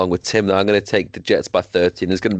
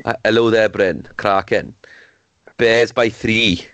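put-on Welsh accent. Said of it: "I'll do bloody Tim. ... Welsh".

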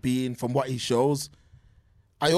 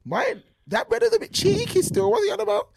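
high put-on voice. Voicing his own reaction.

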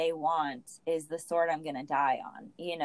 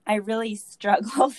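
groggy voice; 4 semitones higher, 6 dB louder than usual. Real, not acted. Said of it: "this groggy voice I've got going on".

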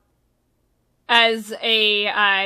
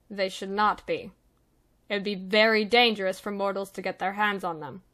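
softly spoken, measured Death Warden, lightly voiced; 4 dB quieter than usual. Death Warden explaining the danger of the coins to mortals, quiet measured voice. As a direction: explain it quietly and deliberately, with pauses.

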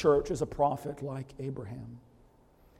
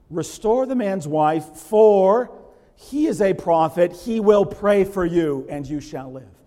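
proclaiming God's words; 3 semitones higher, 9 dB louder, slower than usual. Acted. God's words read with force.

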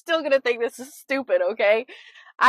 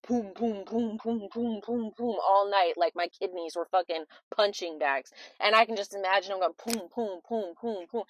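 1 soft punching sounds; 3 semitones lower, 5 dB quieter than usual. Retold or imitated. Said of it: "Rocky was just going like this".

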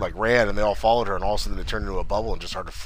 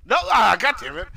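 exasperated groan; 13 semitones higher than usual. Real, not acted. Exasperated after being cut off.

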